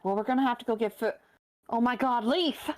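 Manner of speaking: alarmed surprise. Acted. Saheera coming out of the kitchen spots Leaf collapsed, alarmed. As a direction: catch sight of her friend on the floor.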